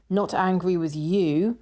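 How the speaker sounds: slow retold jibe leaning on "you"; pointed stress on YOU. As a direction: draw out "you" at the end with a rising tune. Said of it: "In other words, not angry with the person behind the till".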